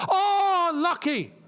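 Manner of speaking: sudden loud high yelp of relief; excited outburst. Real, not acted. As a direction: blurt it out as the ball just misses. Near miss while watching match.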